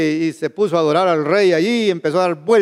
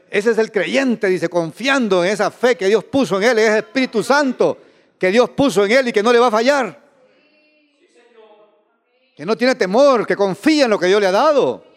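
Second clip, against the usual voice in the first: emphatic, raised preacher's voice; fervent preaching; 4 semitones higher than usual. Real, not acted. Preacher holding up the trusting believer as example, fervent. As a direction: proclaim it with conviction, leaning on key words.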